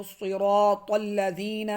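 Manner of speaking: صراط with a thick heavy ص and ط, slowly. Shown as a demonstration. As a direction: make صراط full and heavy. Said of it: "موٹا کیجئے اس کو".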